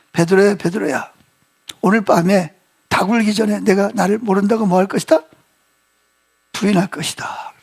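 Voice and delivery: low, subdued retold prediction; Jesus. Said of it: "예수님이 뭐라 그러죠".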